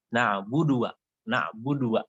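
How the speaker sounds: "na'budu wa" cut off as one word ending in -dua'; Banjar misreading. Shown as a demonstration. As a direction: run "budu" and "wa" together into "budua". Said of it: "kadang-kadang kita bacanya". ("na'budu wa" digabung keliru, berbunyi "budua")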